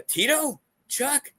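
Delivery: high, questioning guesses; guessing. Retold or imitated. Guessing the surprise guest to his son, high questioning. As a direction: toss out each name high and unsure. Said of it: "And I'm like".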